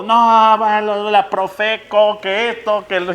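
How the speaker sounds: irate customer working himself up; retold angry tirade. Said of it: "le empecé a dar con todo".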